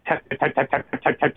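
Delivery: rapid-fire tap-tap machine noise; imitated jackhammer taps. Rescuer recalling jackhammers breaking the bridge, imitating rapid tapping. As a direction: mimic a hammering machine with the word tap.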